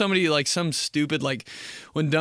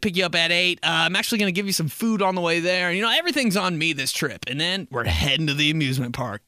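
higher, eager planner voice; generous bro; 4 semitones higher than usual. Acted. Friend treating a bro to amusement park, upbeat. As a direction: lay out the plan cheerfully. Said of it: "This is what they sound like".

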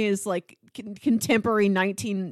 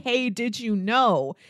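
mock egg-head; slower than usual. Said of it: "some egg-headed".

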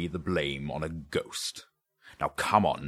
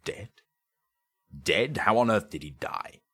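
loud, high-pitched disbelief; startled, incredulous questioning; surprised; 6 semitones higher, 5 dB louder than usual. A narrator's reading. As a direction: blurt it out in astonishment.

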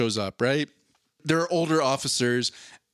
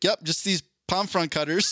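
laughing; 4 semitones higher than usual. Retold or imitated. Sarcastic quip to police officer.

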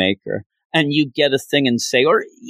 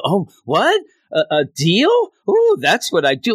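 eager mock Griever; 5 semitones higher than usual. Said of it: "she becomes like".

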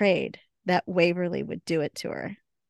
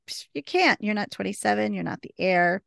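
mock taunting. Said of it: "Rosita just kinda taunts her".

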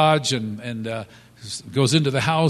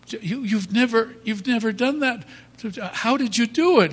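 high, astonished voice; amazed wife; 10 semitones higher, 3 dB louder than usual. Retold or imitated. Wife asks her husband how he did it, high and amazed. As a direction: marvel that he pulled it off.

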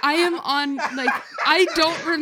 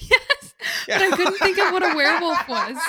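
laughing; 3 semitones higher, 5 dB louder than usual. Real, not acted. Laughing at her own blank.

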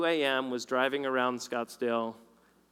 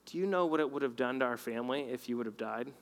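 gentle rebuke; 4 dB quieter, faster than usual. Retold or imitated. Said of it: "he was so gentle".

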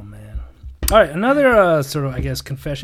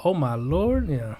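mock Southern belle; 6 dB quieter, slower than usual. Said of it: "I'd be like".

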